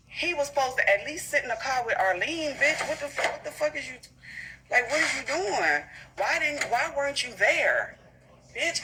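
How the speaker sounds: heated rant. Real, not acted. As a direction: scold him like he's standing right there. Ranting at absent Frenchie.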